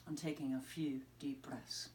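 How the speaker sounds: soft whisper of calm; whispered like a gentle breathing cue. Acted. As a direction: breathe the words out in a hush. Calming listeners, deep breaths.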